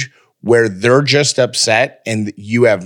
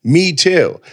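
higher, slower, chipper cool me too; eager agreement; 5 semitones higher, slower than usual. Retold or imitated. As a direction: act keen to join in. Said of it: "I'm like".

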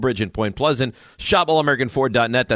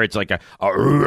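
bear roar; 5 semitones lower than usual. Shown as a demonstration. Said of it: "it's not like a roar".

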